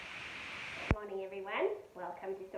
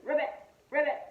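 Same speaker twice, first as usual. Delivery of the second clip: croak; 5 semitones higher, 10 dB louder than usual. Shown as a demonstration. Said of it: "And it's just".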